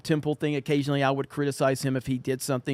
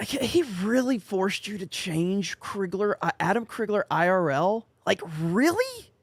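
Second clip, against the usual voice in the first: clipping distorted mic; 4 semitones higher than usual. Real, not acted. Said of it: "very blown out".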